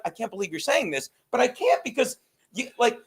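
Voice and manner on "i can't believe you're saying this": softer re-enacted disappointment; restrained disbelief. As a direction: drop the volume and step back from the fight. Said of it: "or be like".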